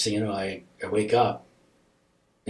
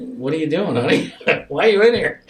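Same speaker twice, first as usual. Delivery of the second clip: higher, sing-out parental questioning with a laugh; coaxing parent; 7 semitones higher, 8 dB louder than usual. Retold or imitated. Parents hiding tears from their little girl, coaxing. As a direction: ask a small child, pitched up and amused.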